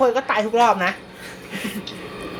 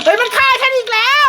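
laughing; 11 semitones higher than usual. Real, not acted. Killed by ghost again.

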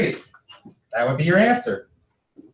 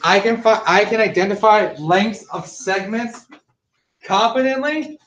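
higher, upbeat mock student voice; confident student; 4 semitones higher than usual. Teacher voicing a confident student for the class. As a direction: say it like a sure, proud pupil. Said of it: "If you can say".

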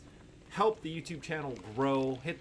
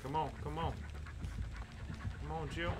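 rising urgency; 5 semitones higher, 4 dB quieter than usual. Real, not acted. Urging teammate, rising.

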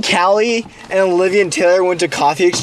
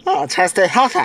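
talking through a mouth guard; slurred words around a mouth guard; much faster than usual. Real, not acted. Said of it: "with this mouth guard in my mouth".

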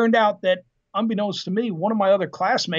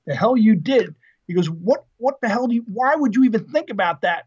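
indignant dad, a little forceful; mock incredulous scolding from a father; retold fatherly outrage; 3 semitones higher than usual. Dad to son who enlisted, retold indignant disbelief.

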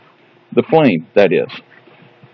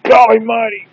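put-on excited kids show host; 7 semitones higher, 3 dB louder than usual. Excited host over the pan.

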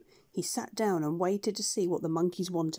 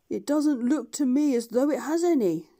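dry dog; 5 semitones higher, 5 dB louder than usual. Acted. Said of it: "said Jip the dog".

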